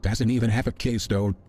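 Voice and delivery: lightly voiced arrogant overlord; a hint of a grand villain voice; booming arrogant alien overlord. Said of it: "I am the dumb overlord voice".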